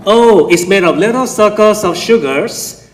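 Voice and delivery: fake Irish accent. Comedian mimics the cereal commercial man, fake Irish accent. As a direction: put on a light, hokey Irish accent. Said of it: "with a fake Irish accent".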